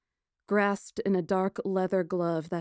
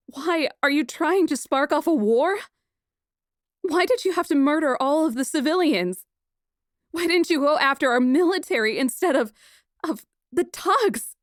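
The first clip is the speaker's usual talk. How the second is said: much higher, louder, shrieking accusations; hysterical fury; 8 semitones higher, 7 dB louder than usual. Acted. Princess accusing the murderer, hysterical shouting. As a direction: scream it at him, near hysteria. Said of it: "my note rise on a hysterical note".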